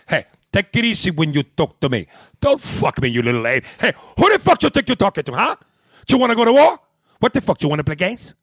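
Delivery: high, loud, fast hammed-up yelling; mock furious mobster. Host voicing the angry caller in a phone fight, shouting high. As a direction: blow up at him like a movie villain. Acted quarrel, second voice.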